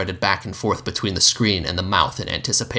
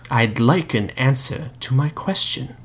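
insistent; 4 semitones higher than usual. Acted. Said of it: "the mouth urged".

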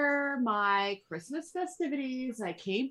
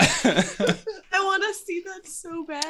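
eager; 10 semitones higher, slower than usual. Real, not acted. Excited after laughing.

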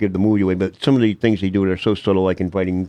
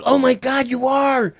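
surprised woman; slower than usual. Retold or imitated. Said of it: "She goes".

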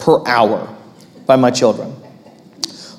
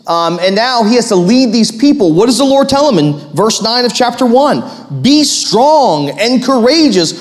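higher, driving sermon delivery; rousing pulpit exhortation; emphatic preaching; 7 semitones higher than usual. Real, not acted. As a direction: preach it with conviction, stretching key words. Preaches with rising force.

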